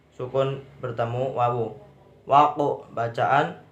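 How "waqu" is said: "Waqu" with a small bounce on the q; qalqalah sughra. Shown as a demonstration. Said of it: "qalqalah sugro". (baca "Waqu" dengan pantulan kecil pada qaf)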